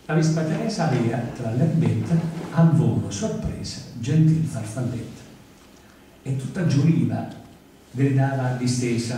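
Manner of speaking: lively singsong recitation of a nursery rhyme; comic poem recital. Acted. Performer reciting a nursery rhyme to the audience, singsong. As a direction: tell it like a well-known rhyme.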